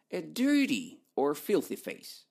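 ordinary talk

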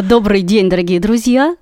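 slow, loud announcer delivery. Pretend. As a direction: open the show like a radio host. Formal podcast intro, slowed.

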